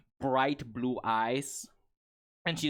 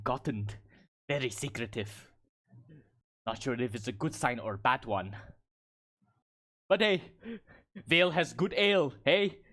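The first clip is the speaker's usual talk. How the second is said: musing Goliath woman. Acted. Goliath woman weighing up a secretive job note, in character. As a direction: puzzle it over, then cheer up, in character.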